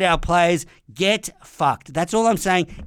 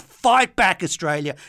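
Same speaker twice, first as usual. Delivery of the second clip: rallying shout. Real, not acted. Rallying cry mid rant.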